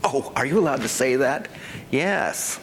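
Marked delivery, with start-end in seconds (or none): 0.0-1.5 mock doubter. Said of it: "Make it up".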